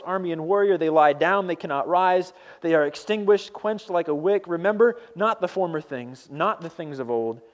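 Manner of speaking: measured scripture read, each phrase set apart; solemn Bible reading. Acted. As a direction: read it out like holy text. Reads scripture aloud.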